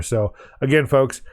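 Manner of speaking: tired, strained voice; losing voice. Real, not acted. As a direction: voice giving out. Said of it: "I'm losing my voice".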